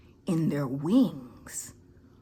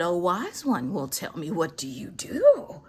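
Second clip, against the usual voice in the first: mock reverent plea; 4 dB louder than usual. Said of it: "And I said".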